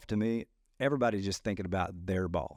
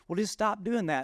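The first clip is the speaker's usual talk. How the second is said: mock advice; 10 semitones higher, 3 dB louder than usual. Mimicking friend's advice.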